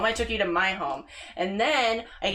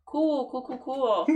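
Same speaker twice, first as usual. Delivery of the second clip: mock nervous cool; 5 semitones higher than usual. Covering nervously to mom.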